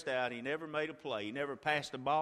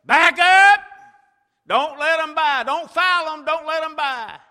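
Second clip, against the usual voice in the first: high, loud coaching shouts; yelling instructions; 11 semitones higher, 17 dB louder than usual. Retold or imitated. Parents shouting defense to the players, loud yelling. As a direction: bark orders from the stands. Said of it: "we're yelling".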